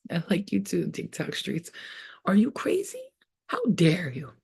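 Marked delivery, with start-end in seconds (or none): 2.3-4.3 whispered, half-crying disbelief; mock teary whisper; mock whimper. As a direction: fake a tearful gasp.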